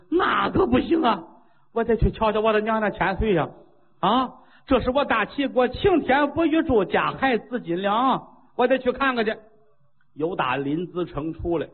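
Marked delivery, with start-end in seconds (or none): 0.1-9.3 high, fast, tearful alarm; a frantic king near tears over his queen; anxious crying out. Acted. King hearing his queen is poisoned, frantic tearful outcry. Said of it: "就跟着了火似的".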